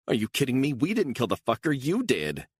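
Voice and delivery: high, loud and incredulous; indignant outburst. Acted. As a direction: throw the blame right back at him. Beatrice denies killing, accuses Stone.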